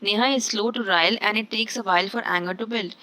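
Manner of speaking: very slow, deliberate reading; slow dictation pace; slow example read. Shown as a demonstration. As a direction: spell it out slowly for students. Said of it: "इसका sentences मैंने कुछ इस तरीके से इस्तेमाल किया है".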